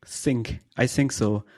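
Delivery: German accent, s for TH; lightly shown German accent. Shown as a demonstration. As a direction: say it with a German TH slip. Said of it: "That sounds very German to you".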